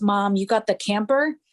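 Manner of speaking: imitated childlike lisp. Retelling a young son's question after hearing the news: imitating a child's lisp. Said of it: "he had this lisp".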